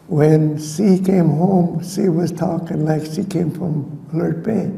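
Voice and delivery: imitated Alert Bay accent, drawn out at first; playful take on Alert Bay English. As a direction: roll into a light Alert Bay lilt. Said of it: "when she spoke English like that".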